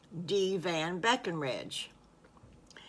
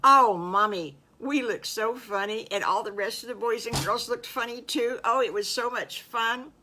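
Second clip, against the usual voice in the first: loud burst on "Oh, Mommy", then higher chatter; higher, louder delighted child voice; excited little piglet; 5 semitones higher, 6 dB louder than usual. Acted. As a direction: gush like a happy little piglet. Piglet recalling funny dress-up day.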